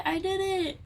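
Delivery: panting after squats; out of breath. Real, not acted. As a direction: say it winded, gasping. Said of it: "I'm a little out of breath".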